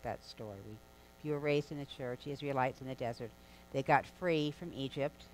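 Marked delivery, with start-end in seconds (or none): 2.3-3.3 fast, throwaway repeat of the phrase; tossed-off quick reminder; quick aside repeat. Shown as a demonstration. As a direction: rush through it as a recap.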